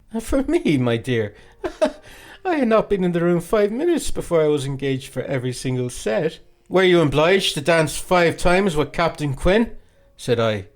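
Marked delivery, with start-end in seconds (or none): 0.1-6.4 high, laughing boast; laughing coquette. A narrator's reading. 6.7-9.7 slow, pointed, louder jealous question; jealous boy. A narrator's reading.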